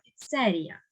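піцерія with the beat on ЦЕ; stress on second syllable. Shown as a demonstration. Teacher explains the rule, піцерія stressed on second syllable. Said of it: "маємо наголос на другий склад".

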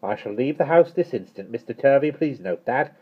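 high, indignant scolding; angry. A narrator's reading. Miss Tartlett leaving the house in disgust, angry. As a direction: scold them with affronted dignity. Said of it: "She flounced angrily toward the door".

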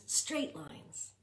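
even, level pitch with no wobble; steady one-note delivery; straight voice. Shown as a demonstration. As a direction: say it flat like a ruler line. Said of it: "Do you hear my pattern?".

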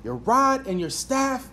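scripture reading. Real, not acted. Pastor reading Psalm twenty-three to the church, slow and solemn. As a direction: read the psalm slowly, let each line land.

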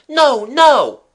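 loud, high shouts of refusal; alarmed crowd refusing, easing slightly by the end; crying out. A narrator's reading. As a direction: cry out in protest, full voice. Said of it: "Cries of".

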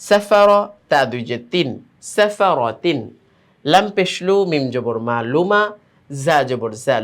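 sing-song letter-by-letter chant, pitch rising and falling; spelling drill recitation. Shown as a demonstration. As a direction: chant each spelling, then join the syllables. (সুর করে বানান করে পড়া)

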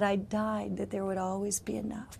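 soft, whispered voice of God; reverent whisper. Retold or imitated. God telling her in the vision, in a soft whisper. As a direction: hush it gently.

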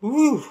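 high, loud "woo"; post-run whoop. Real, not acted. Runner after finishing five miles, high whoop. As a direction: let out a big whoop.

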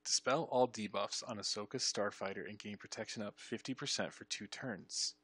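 careful reading, stretching the last words. Shown as a demonstration. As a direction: read it out deliberately, slowing at the end. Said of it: "We need to read that again, slower".

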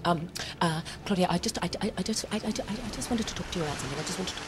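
soft, halting, stammered bad news; nervous script supervisor. Script supervisor warns the actress her character dies, nervous stammer. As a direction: tiptoe into it, stumbling over the words. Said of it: "one of the script supervisors came to me".

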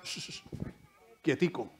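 very soft shushing, soothing quietico; gentle hush. Retold or imitated. Jesus hushing the stormy sea, very soft and soothing. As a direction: hush the sea like calming a child.

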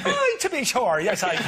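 put-on high, playful Irish accent; jokey stage Irish. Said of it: "can you now do an Irish accent".

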